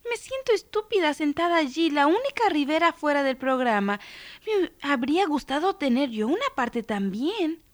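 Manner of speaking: put-on high, hurt child's complaint; protesting girl. A narrator's reading. Left-out girl protests to her family, high complaining voice. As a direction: keep grumbling in a small high girl's voice. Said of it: "protestó".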